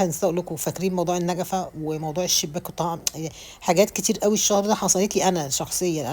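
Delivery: ordinary talk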